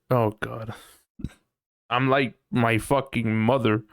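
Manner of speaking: normal talking voice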